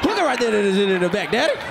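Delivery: mock Louisiana swamp mumble; Louisiana swamp son. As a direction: garble it like a Louisiana swamp boy talking to his father. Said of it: "Son talking to his father".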